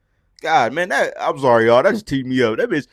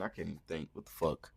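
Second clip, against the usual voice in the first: low, much softer muttering; muttering to himself; 10 semitones lower, 20 dB quieter than usual. Real, not acted. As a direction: mutter it while searching memory. Muttering while trying to remember.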